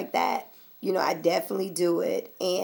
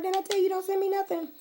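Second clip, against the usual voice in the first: exasperated; 12 semitones higher, 4 dB quieter, faster than usual. Retold or imitated. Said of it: "I'm going".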